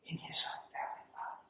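soft, hushed pledge to a wife; retold tender vow. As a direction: vow it quietly, almost whispered.

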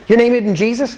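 high mock-astonished question; mock surprise. Asking the cashier his name, with mock surprise. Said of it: "humorous mood".

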